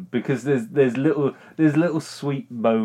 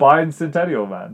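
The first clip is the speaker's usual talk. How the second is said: "Bicentennial" punched louder and higher, starting like "bine"; insistent, louder "Bicentennial", pitched up; over-emphasized; 4 semitones higher, 6 dB louder than usual. Real, not acted. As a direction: overdo the first syllable of "Bicentennial". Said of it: "emphasizing the word too much".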